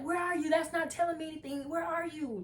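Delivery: high, demanding imitation of a friend; mock yelling friend. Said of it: "she just yelling".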